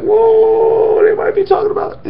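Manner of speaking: high, airy whispered whoa; hushed, wide-eyed whoa; mock amazement. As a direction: act out a sudden realization. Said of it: "you're like".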